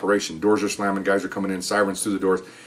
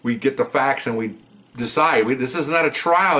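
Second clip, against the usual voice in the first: pissed off; 4 semitones higher than usual. Retold or imitated. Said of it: "getting all pissed off at her".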